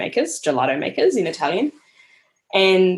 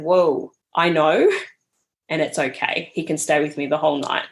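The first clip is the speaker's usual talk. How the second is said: reassuring. Retold or imitated. Reassuring the apologising mother.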